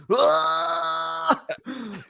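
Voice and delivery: bigger hammed-up dying scream; death cry. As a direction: scream like you're going down in the tank. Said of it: "need a little bit more death cry".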